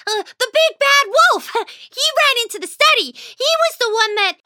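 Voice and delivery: high, flustered little mouse covering a lie; squeaky anxious fib; nervous little mouse. Acted. Whiskers fibbing to Dad, high nervous squeak.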